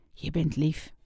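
soft and close, almost a whisper; tender hushed words to him; quiet loving murmur. Acted. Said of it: "fluisterde ze".

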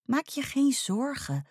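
high, slow reassurance; comforting. A narrator's reading. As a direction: soothe a friend, taking your time. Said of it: "troostte Pop haar". (troostend, hoog en langzaam)

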